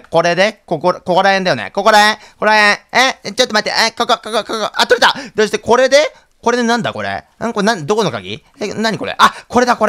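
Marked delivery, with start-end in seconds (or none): 4.7-5.1 laughing relief. Real, not acted. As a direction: laugh out the win. Finally gets the item.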